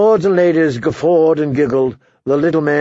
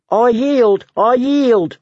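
high-pitched, pleading yell; mock-panicked dwarf's squeal; screamed surrender; 9 semitones higher, much slower than usual. A narrator's reading. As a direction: cry out for mercy in a high voice. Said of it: "the dwarf on the bottom screamed".

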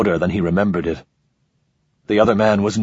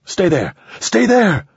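building high shout; 13 semitones higher, 3 dB louder, slower than usual. Acted. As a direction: yell it over the shoulder. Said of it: "Ramon shouted".

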